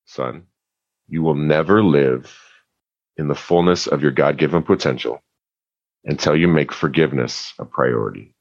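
a hint of a calm, gentle father asking; lightly voiced dad, patient and low-key; soft-spoken dad. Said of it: "He's a very soft-spoken man".

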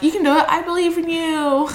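high, flat pep talk; flat encouragement. Retold or imitated. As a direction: cheer without meaning it. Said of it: "I'll be like".

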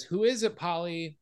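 a woman's voice asking from behind the door; female voice. Retold or imitated. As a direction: call out from the next room. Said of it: "a female voice from inside says".

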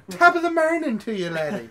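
high, loud mock brogue; a cheesy top-of-the-morning greeting; hammed-up Irish-British accent. Showing off his British accent to friends, hammed-up brogue. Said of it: "I feel like I'm in England".

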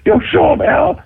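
high, excited retold urging; egging on. Friends urging the rapper outside the door, egging him on. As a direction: goad your friend to prove himself.

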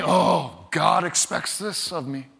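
a mild grudging groan, sinking at the end. Acted. Believer facing what God expects, grudging. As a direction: sound like you obey reluctantly. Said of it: "like, grudgingly".

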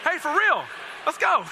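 loud call to regroup. Real, not acted. Calling the room back to order.

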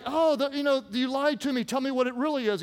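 a hint of a wheedling woman; lightly voiced complaining Delilah. Preacher as Delilah pressing Samson, mild complaint.

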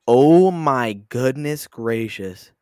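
loud, long drawn-out amazement; floored, drawing out every word; astonished. Real, not acted. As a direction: stretch it out in big, slow disbelief. Astonished at the earnings figure.

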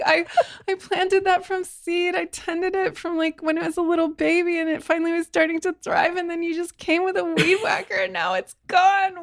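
mock anguished wail. To the gardener with the weed whacker, a mock anguished wail. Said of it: "I've totally cried so many times and I'm like".

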